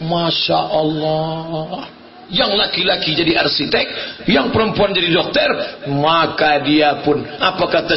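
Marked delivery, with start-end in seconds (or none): 0.1-2.0 slow, long-held marvel; drawn-out admiration. Retold or imitated. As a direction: let the praise stretch out slowly. Admires the young architect's design. (kagum, diucapkan panjang)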